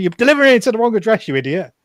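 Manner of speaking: very loud, high-pitched, shrill shout. Retelling confronting a delivery driver at the wrong address: retelling a shout. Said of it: "I shouted at the guy".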